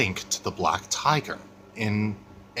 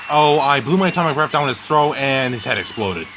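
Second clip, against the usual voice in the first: Legendary Goji voice; 4 semitones higher, 4 dB louder than usual. Acted. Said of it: "let Legendary Goji tell you what happened".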